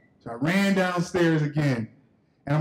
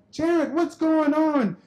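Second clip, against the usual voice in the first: high, drawn-out little-sister voice; imitated little sister; 9 semitones higher, much slower than usual. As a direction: call out high and slow like a nosy kid sister. Little sister calls out in story.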